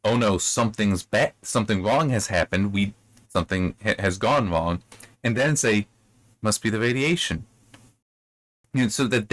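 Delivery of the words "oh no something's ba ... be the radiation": with a beat. Shown as a demonstration. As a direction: pause before "Must be the radiation". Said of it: "to allow that reaction".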